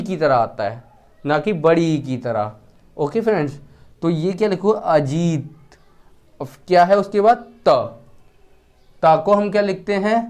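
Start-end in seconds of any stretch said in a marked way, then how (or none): 4.7-5.8 "अजीत" stretched very slowly and ending on a falling t; slow demo. Shown as a demonstration. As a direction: drag out "अजीत" so the class hears there is no final a. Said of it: "इसमें उच्चारण नहीं हो रहा है". (बहुत धीरे "अजीत", अंत में त पर रुकें)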